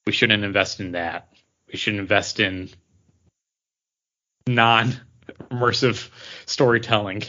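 slow, mock corporate reasoning; lightly voiced studio executive, drawn out; imitating Disney execs. Host imagining Disney executives misreading fans, slow mock reasoning. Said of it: "Disney doesn't look at this and say".

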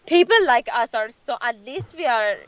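lightly put-on Persian accent as the scolding dad; half-mock the dad lecturing in his Persian accent; imitating dad's Persian accent. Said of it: "you go and do the accent".

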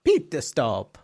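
Pitter Stop in a light Italian accent. Shown as a demonstration. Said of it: "If you said it in an Italian accent".

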